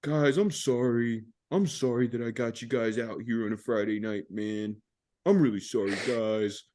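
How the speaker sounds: imitating a sloppy, teary apology; drunk apology. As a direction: overdo it like a weepy drunk. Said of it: "I'm all emotional 'cause I'm drunk".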